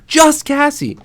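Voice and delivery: very high mock holler. Daughter insisting on her name, mock holler. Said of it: "I'd holler at him".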